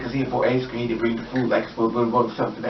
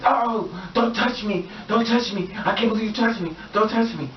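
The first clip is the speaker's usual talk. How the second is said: freaked-out guy; 7 semitones higher than usual. Retold or imitated. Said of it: "So he freaks out".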